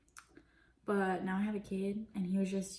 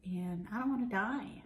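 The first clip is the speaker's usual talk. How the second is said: whispering. Real, not acted. Whispered aside while eating.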